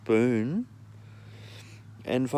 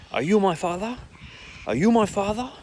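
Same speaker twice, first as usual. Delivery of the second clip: high, put-on voice of the crazed mother; mocking mother voice; 10 semitones higher, 5 dB louder than usual. Mother calling at night, high mock voice. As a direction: mimic her eerie question much higher.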